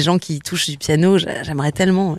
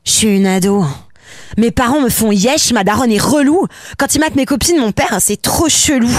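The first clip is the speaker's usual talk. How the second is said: put-on higher, sulky teen; teenage girl voice; 5 semitones higher than usual. Shown as a demonstration. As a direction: play a moody teenager. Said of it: "je vais essayer de te le faire".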